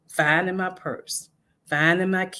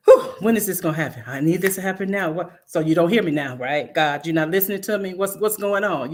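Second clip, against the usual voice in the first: impatient. Acted. Acting out impatient prayer.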